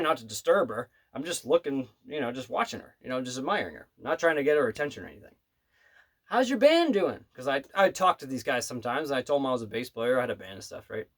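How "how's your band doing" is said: a lightly voiced high, slow old-lady question; sweet old lady. Pianist asking the waiter about his band in a high sweet voice. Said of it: "she was just such a sweet old lady".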